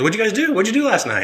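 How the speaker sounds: high, sing-song probing questions; a dad pretending innocence while he already knows; imitating dad. Retelling his dad probing about last night, high and sing-song.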